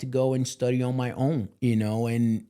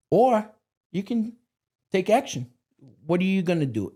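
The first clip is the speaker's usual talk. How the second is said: emphatic call to action; 7 semitones higher than usual. Real, not acted. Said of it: "rising emphatic turn".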